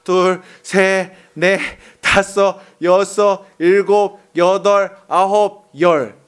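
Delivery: calm, unhurried count to ten; slow counting. Shown as a demonstration. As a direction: count to ten slowly, one number at a time. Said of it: "천천히 열만 쉬어도 돼". (천천히 하나씩 세는 목소리)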